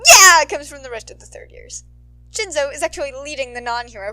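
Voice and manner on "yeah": high roaring cheer; loud cheer. Acted. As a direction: whoop with the crowd. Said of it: "a loud".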